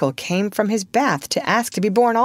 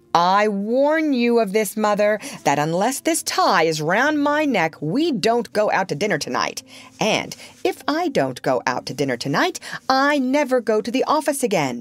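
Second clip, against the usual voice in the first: a hint of a stern warning, higher; 4 semitones higher than usual. Father warning mother about dinner, sternly. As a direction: lecture her gravely. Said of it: "he went on sternly".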